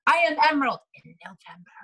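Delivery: bold declaration. Retold or imitated. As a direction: announce it like a sure thing. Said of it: "my little note said".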